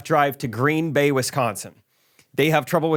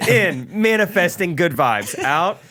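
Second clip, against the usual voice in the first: mock bossy decree; 4 semitones higher than usual. Listing banned body functions to his friends, a high hammed-up decree. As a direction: lay down the law like a smug official. Mock agent's rules list.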